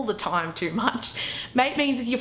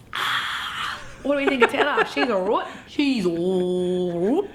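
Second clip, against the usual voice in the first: laughing after the shoey. Real, not acted. Post-shoey gasp and laughing.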